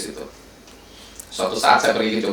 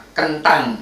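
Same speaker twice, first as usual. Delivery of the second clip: Javanese "kentang" with a stressed T, pitched up; higher Javanese-accented "kentang"; 4 semitones higher than usual. Shown as a demonstration. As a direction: say "kentang" as a Javanese speaker, leaning on the T. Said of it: "Kalau orang Jawa bukan kentang".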